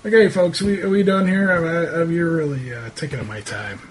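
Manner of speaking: lightly voiced local dismissing visitors; defensive local man. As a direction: wind them down, wanting them gone. Game master plays irritated local.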